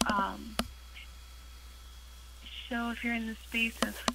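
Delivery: echoing call audio; big hall echo. Real, not acted. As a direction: voice bouncing around a big room. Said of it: "sorry, I'm echoing really badly right now".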